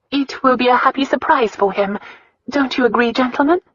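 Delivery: high, pleasant smiling lilt. A narrator's reading. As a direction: add it sweetly, with a smile. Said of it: "she added with a smile".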